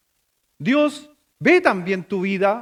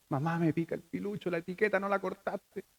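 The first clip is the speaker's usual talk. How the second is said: put-on child complaining; 10 dB quieter than usual. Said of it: "que nos dijera".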